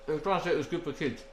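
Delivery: talking through a mouthful; mouth full. Real, not acted. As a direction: say it round a bite of food. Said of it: "You're talking with your mouth full".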